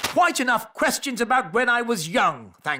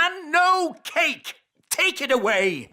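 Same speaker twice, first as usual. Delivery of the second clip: angry; 5 semitones higher than usual. Acted. King angry about birthday.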